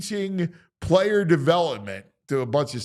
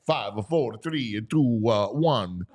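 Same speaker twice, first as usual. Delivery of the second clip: mock Italian countdown with added vowels; bad Italian accent; 2 semitones lower than usual. Host imitating Andrew's countdown, bad Italian accent. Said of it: "in this bad Italian accent".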